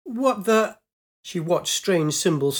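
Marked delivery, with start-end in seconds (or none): 0.0-0.8 higher surprised exclamation; startled. Acted. Pilot startled by symbols on the sphere, surprised. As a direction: caught off guard.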